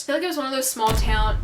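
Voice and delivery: slipped into a Southern twang; country accent. Real, not acted. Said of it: "Did you hear my country accent?".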